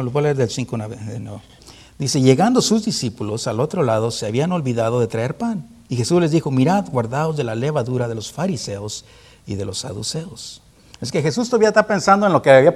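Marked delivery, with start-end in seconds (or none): 2.2-10.6 measured Bible reading to the congregation; scripture reading. Acted. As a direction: read the verse out clearly and evenly. Reads the gospel passage aloud. (lectura bíblica pausada y clara)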